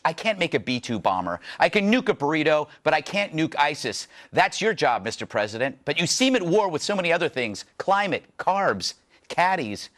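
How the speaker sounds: wry opinion-host read, punchline by punchline; measured, pointed monologue delivery; scripted TV monologue. Acted. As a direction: read a satirical editorial to camera.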